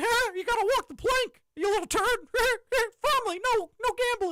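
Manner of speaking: very high, squeaky cartoon mouse voice. Joking about gambling on Mickey's boat, doing a Mickey voice. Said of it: "Mister Mickey himself will say".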